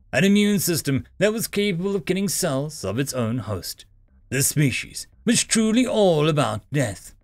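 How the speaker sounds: measured, emphatic sci-fi audiobook read; story narration. A narrator's reading. Narrator telling listeners of an augmented human, story narration. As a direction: narrate firmly with deliberate phrase breaks.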